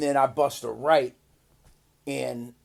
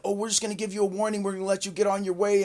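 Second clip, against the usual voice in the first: quick, offhand cop voice; mimicked lenient cops; 6 dB quieter, much faster than usual. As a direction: rattle it off like officers waving someone on. Mimics cops letting him off.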